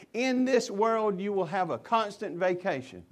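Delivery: tongue-in-cheek misquote, stretched out; mock promise. Mock misquote, then the real verse.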